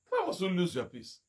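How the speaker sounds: second take hushed after the pressed one; hushed repeat. Acted. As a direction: drop it to a near murmur.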